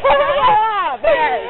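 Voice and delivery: slow giggly stoned talk; laughing and drifting, high as a kite. Real, not acted. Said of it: "que brisa". (chapado, rindo devagar)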